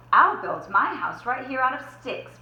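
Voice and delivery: a little pig eager to play; excited squeal. Acted. Boris squealing excitedly to his brothers. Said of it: "Boris squealed excitedly".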